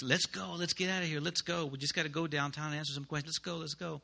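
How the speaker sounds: urgent hurry. Retold or imitated. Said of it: "the Serbian interpreter is like".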